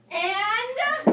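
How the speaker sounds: high, soft incredulous question; mock unimpressed. Women at lunch to a friend, high mock incredulous. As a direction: wait for the rest, unimpressed.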